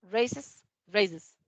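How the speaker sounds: raises repeated slowly, ending voiced iz; raises, voiced iz ending, twice; repeated demo. Shown as a demonstration. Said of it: "¿Ven la diferencia?".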